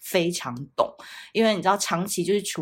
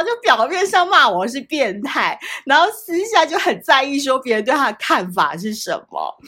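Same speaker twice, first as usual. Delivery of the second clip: louder talk with laughter in it; amused, louder retelling; still laughing; 6 semitones higher, 6 dB louder than usual. Real, not acted. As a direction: tell it while still giggling. Still laughing while telling.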